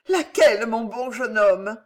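put-on high, ingratiating old dame; eager old woman. A narrator's reading. Old woman asks Pardaillan his condition, eager and high. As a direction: ask eagerly, starting high and loud.

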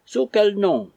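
wife crying out at Barry; shrill cry. A narrator's reading. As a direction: demand Sous quel nom with quel hit hardest. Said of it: "cria Missus Fitzsimons".

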